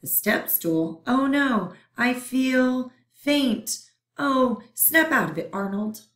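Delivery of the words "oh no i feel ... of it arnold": high, faint-hearted panic; swoon, then scold a friend; panicky germ. Acted. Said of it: "Those were the germs talking".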